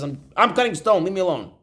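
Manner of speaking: a touch of annoyed brush-off; mildly irritated. Acted. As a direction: brush off a pestering questioner, mildly. Irritated worker brushes off repeated question.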